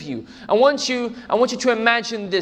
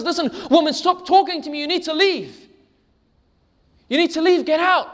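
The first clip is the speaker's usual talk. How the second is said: stern fireman's order; 8 semitones higher than usual. Acted.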